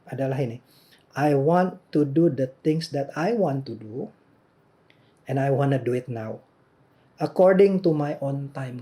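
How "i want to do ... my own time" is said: a hint of a stubborn son, measured and firm; defiant child's demand. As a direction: lightly voice the stubborn eight-year-old, spelling out each demand.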